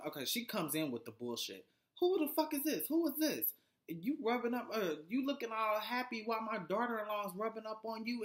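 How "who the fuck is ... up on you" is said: higher, accusing mock tirade; hammed-up angry mom; imitating angry mother-in-law. Judy barging in on shoot.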